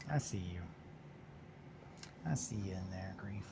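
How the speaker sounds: breathy unvoiced whisper to the model; whispering softly to the figure. Real, not acted. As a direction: hush it like you've spotted something hiding. Whispering to a new miniature.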